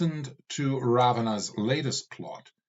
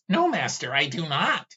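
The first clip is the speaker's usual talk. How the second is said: pleading servant skull; 6 semitones higher than usual. Acted. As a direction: beg your master to stop. Skull answers.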